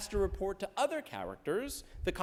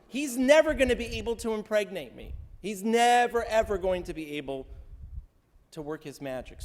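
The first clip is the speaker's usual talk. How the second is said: mock scornful Sarah; 5 semitones higher, 5 dB louder than usual. Teacher voices Sarah's scornful complaint.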